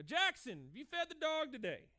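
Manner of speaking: calling out. Retold or imitated. Father calling to son.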